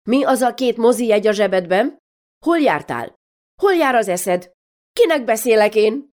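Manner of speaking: mother rounding on her daughter, questions piling up; scolding mother. Acted. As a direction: grill her like a fed-up mother. Mother interrogating daughter Mari.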